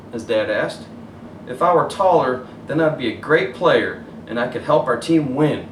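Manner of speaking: put-on gentle storybook narration for kids; story reading. A narrator's reading. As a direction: read it like bedtime story. Reads picture book aloud.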